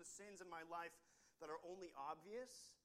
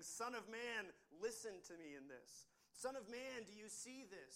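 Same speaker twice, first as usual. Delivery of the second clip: high, loud calling of a name; ringing high call from above; 5 semitones higher, 4 dB louder than usual. Acted. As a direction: call out Son of Man like God summoning. God calling to Ezekiel.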